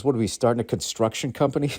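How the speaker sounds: wife's teasing line through a laugh; imitating the wife's amused jab; laughing quote. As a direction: blurt it out laughing. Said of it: "She goes".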